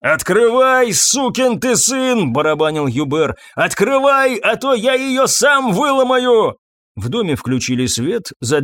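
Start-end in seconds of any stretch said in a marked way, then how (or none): 0.0-2.3 loud, high, drawn-out demand; furious yell, stretching the words; angry shout. A narrator's reading. Groom pounds on the door. 3.6-6.6 high, slow furious yell; loud angry demand; threatening shout. A narrator's reading. Groom threatens to break door.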